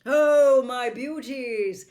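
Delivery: loud high hail to horses; calling out. Acted. Prince calling to his horses in the stable, loud hail. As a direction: greet the horses joyfully.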